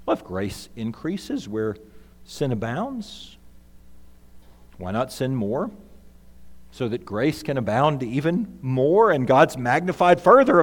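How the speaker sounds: lightly voiced excuse-maker; voicing the distortion. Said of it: "The distortion might sound like this".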